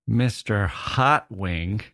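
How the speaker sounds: slow, rising disbelief on hot; Mister Hot Wing? drawn out slow in mock disbelief; incredulous question. Naming the goldfish, then questioning it.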